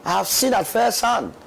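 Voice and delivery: loud, high, passionate outcry; rising to an emotional peak; impassioned. Real, not acted. Panelist grows impassioned about tragedy.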